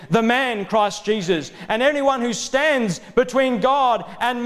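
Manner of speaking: urgent sermon delivery with emphatic peaks; fervent preaching. Real, not acted. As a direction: preach it hard, driving each point home. Fervent preaching against intermediaries.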